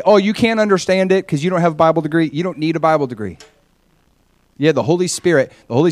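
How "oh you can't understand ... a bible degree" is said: mocking devil voice. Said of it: "The devil will lie to you and he'll say".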